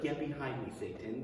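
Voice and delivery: quiet, sinking stern rebuke; stern low rebuke. Retold or imitated. Jesus rebukes Peter, a quiet stern warning. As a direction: drop the voice, firm and grave. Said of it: "he's like".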